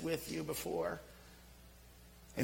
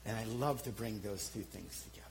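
soft, lower whisper of conviction; 9 semitones lower, 8 dB quieter than usual. Real, not acted. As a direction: breathe it out like a secret. Whispered confession of calling.

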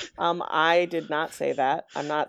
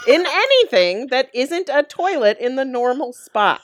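much higher, louder, laughing through the words; laughing refusal; 8 semitones higher, 6 dB louder than usual. Real, not acted. Laughing off a gross suggestion.

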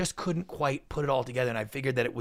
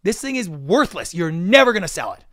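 scornful executive; 6 semitones higher, 9 dB louder than usual. Retold or imitated. Imitating the TV executive scolding him, scornful. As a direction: berate a naive young producer. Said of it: "She's like".

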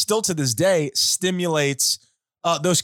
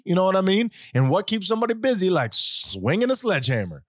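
put-on Southern accent. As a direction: play a cocky Southern redneck. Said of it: "It's not a terrible Southern accent".

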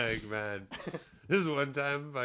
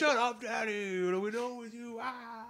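higher mock scoff; classmates scoffing; 11 semitones higher than usual. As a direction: dismiss him, teasing. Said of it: "I'm like".

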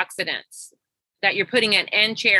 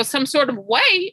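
mock-innocent, not getting it; naive puzzlement; 3 semitones higher than usual. Coach echoing her client's hint, naively puzzled. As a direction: echo it as a slightly raised, puzzled question. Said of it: "I'm still not getting it, Miss Naive".

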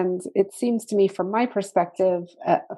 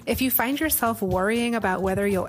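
ad read. Acted. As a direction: read it like a podcast promo. Ad read for academy.

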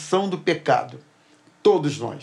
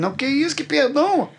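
incredulous protest; 9 semitones higher than usual. Retold or imitated. Arguing back with God.

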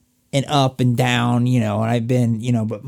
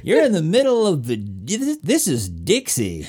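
mock-dramatic Hollywood Southerner warning; 3 semitones higher than usual. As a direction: play a movie local warning an outsider, laughing a little. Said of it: "according to Hollywood is in the deep South".

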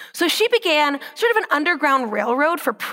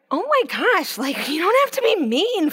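offended soldier; 4 semitones higher than usual. Retold or imitated. Soldier reacting to her sass.

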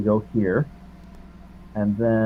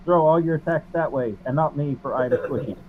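higher-pitched in-character plea; raised pitch, passing the blame; pleading deflection; 5 semitones higher than usual. Acted. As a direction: talk the enemy round, pitched up. Player deflects blame to another, in character.

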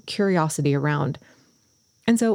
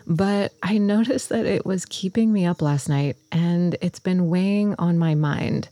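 just-woke-up morning voice. Real, not acted. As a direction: speak in your early morning voice. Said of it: "my very early morning voice right now".

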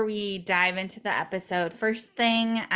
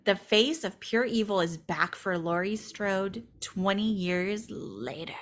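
horror trailer voice; slower than usual. Shown as a demonstration. Reading dramatic movie taglines.

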